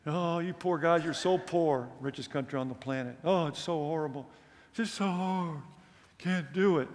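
mock whiny complaint, lightly voiced; a touch of a whining American. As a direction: poke fun at American whiners with a sing-song moan. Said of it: "Americans are such whiners".

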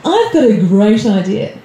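slow, casual suggestion with a long pause; a hint of a troublemaking inner voice; lightly voiced scheming brain. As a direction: float a bad idea as if it were helpful. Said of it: "And your brain goes".

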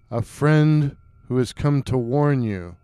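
low, hollow and distant-sounding; deep hollow voice. Acted. Stranger by the fire greets the hunter, deep hollow voice. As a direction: speak low, as if from far off in the dark. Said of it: "in a deep, hollow-sounding voice".

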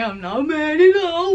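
sing-song fake-innocent not mad at all; squeaky over-bright insistence; high mock denial. Repeated denial, raised and rising.

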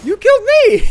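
high, loud outraged yell; loud shout. Real, not acted. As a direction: yell it in shock. Shocked shout at being killed.

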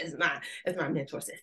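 quick hushed aside; whispered aside. Real, not acted. Speaker crediting her mentor in a whispered aside. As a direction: drop it to a whisper, half to yourself.

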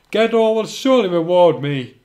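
loud, scheming villain. Acted. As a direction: gloat like a cartoon villain. Villain gloats in story.

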